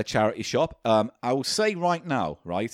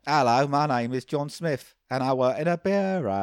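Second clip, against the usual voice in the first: slow attempt at a Cockney actor; lightly put-on London voice, drawn out; Michael Caine; slower than usual. Podcaster copying the line he was given, poor impression. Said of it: "trying to do a Michael Caine impression".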